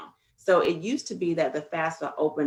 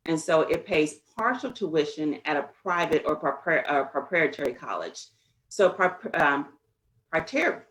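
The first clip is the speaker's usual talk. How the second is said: talking around clear aligners, tripping on words; speaking with aligners. Real, not acted. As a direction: stumble through words with aligners in. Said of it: "I'm trying to speak with these aligners in".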